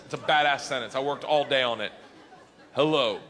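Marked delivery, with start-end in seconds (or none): 2.7-3.2 slow translation. Retold or imitated. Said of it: "I'll tell you what the sentence says".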